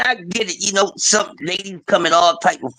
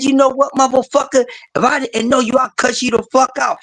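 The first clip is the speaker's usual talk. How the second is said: imitating woman; 7 semitones higher than usual. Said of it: "She said".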